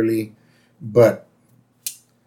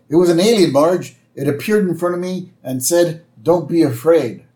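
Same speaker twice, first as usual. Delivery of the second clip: lightly acted breathless report, a bit higher; Homer; 5 semitones higher than usual. Homer tells Marge about the alien, lightly acted urgency. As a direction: excitedly retell it in a lightly raised voice. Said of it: "Homer's like".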